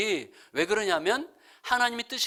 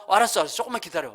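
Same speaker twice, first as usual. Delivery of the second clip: lightly imitated happy, eager wife; brisk, upbeat promise to hurry; glad eagerness; much faster than usual. Wife delighted her husband is hungry, glad and eager. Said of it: "와, 너무 좋다".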